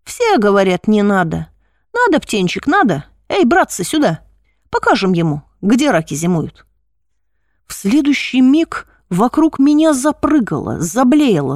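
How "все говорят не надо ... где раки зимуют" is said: лёгкая насмешка над испуганным; поиграй с его страхом, зови дружков; глумливый хулиган. Acted. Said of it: "забавлял мой страх". (насмешливо, с удовольствием)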